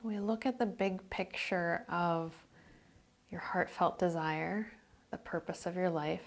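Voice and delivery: calm meditation voice, phrases spaced by silence; guided meditation. Real, not acted.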